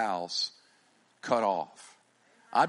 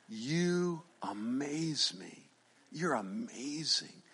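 slow, much softer awed whisper; 8 dB quieter, much slower than usual. Acted. Jesus whispering his amazement to the woman. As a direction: breathe it out in wonder.

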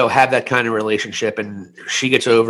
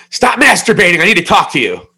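mother barging in; 5 semitones higher, 4 dB louder than usual. Retold or imitated. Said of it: "she comes downstairs into my bedroom and she's".

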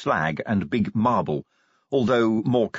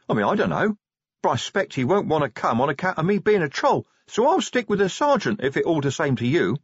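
higher troll voice, reasoning it out; easygoing troll; 7 semitones higher than usual. Acted. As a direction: shrug it off as a guileless troll. Troll figure in the story.

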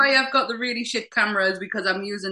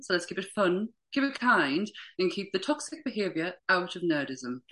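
polite telephone voice; phone voice; 3 dB quieter than usual. Acted. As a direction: put on your polite phone manner. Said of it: "Did everyone like my phone voice too?".

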